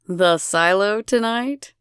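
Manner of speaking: slow, suggestive invitation; slow flirty proposition; seductive. Acted. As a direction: lean in and tempt her. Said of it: "asks seductively".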